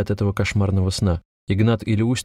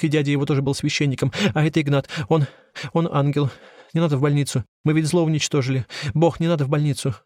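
higher, rushed, desperate tearful confession; tearful pleading; 6 semitones higher than usual. A narrator's reading. Andrei begs the police, a tearful rushed plea. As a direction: plead through tears, eyes shut. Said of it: "Текли слёзы".

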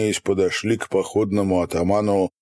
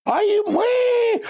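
shouting; slower than usual. A narrator's reading. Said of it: "закричали тут же".

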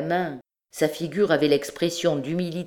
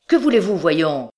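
impatient; 6 dB louder than usual. Acted. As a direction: snap at him to get rid of him. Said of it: "reprit Marius".

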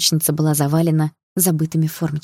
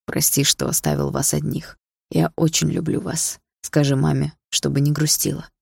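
gentle sadness. Acted. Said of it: "со светлой печалью в голосе сказал папа".

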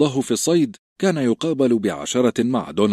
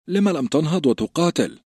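puzzled recruit; 8 semitones higher than usual. A narrator's reading. Grenn questioning Sam.

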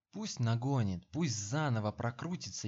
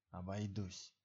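spiteful brush-off; 3 semitones lower, 8 dB quieter than usual. A narrator's reading. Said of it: "злобно отмахнулся Савва".

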